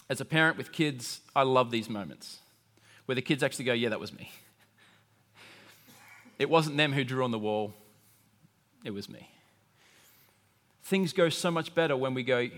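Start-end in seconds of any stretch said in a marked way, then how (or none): 3.7-9.3 soft, sheepish confession; a small guilty voice fading away; child owning up. Retold or imitated. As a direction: admit it quietly, like a caught kid.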